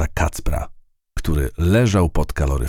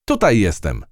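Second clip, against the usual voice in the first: mild call; 5 semitones higher than usual. Acted. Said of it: "krzyknęła polna myszka".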